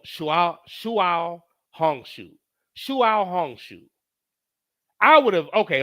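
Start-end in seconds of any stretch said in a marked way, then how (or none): 0.1-3.8 put-on slow stereotypical Mandarin accent on "Shuao Hongshu"; mock Mandarin accent. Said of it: "stereotypical accent that I believe to maybe be Mandarin".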